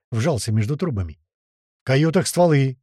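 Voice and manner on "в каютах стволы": yelling. Acted. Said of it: "проорал Слива".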